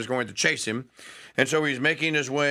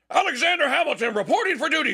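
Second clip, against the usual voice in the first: put-on a snappy, higher young recruit reporting for duty; eager young soldier; 12 semitones higher, faster than usual. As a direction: bark it out fast like a boy standing at attention. Young Hamilton reporting to Washington.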